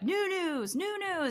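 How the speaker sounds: mock, very high, very slow, drawn-out scream. Imitating a partner screaming a segment name: imitating someone screaming. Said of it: "I hear him screaming new news".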